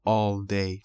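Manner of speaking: all day with a rounded British vowel in "all"; British pronunciation. Shown as a demonstration. Teacher adding the variant after the example, British pronunciation. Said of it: "تلفظ بریتیش".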